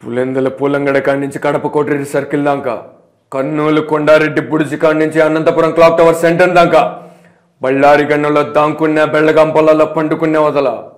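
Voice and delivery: lightly voiced film villain-hunter challenge; film dialogue delivery. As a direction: declaim the threat like a mass hero. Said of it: "ఒక dialogue చెప్తావా".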